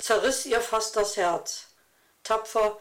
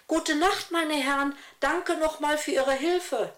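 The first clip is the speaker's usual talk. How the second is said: hohe, helle Jungenstimme, „Gute Nacht“ munter und lauter; fröhlicher Junge; 7 semitones higher than usual. Acted. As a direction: stolzer kleiner Junge bedankt sich. Tim, junger Sohn, verabschiedet Männer. (munterer Junge verabschiedet die Männer)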